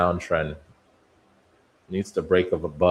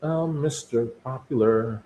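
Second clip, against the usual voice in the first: mock boast; 6 semitones higher than usual. Boasting about his own popularity.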